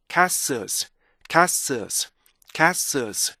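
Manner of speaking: 카스오스 with long first vowel and full ending; "카스오스" as kaa-sulz, tail sustained; rhythmic castles. Shown as a demonstration. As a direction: join "카스오스" but keep every beat. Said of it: "이렇게 읽어주셔야 돼요".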